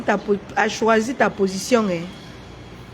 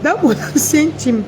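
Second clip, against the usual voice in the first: slow mocking; 3 semitones higher, 4 dB louder, slower than usual. Real, not acted. Mocking a rival during live clash.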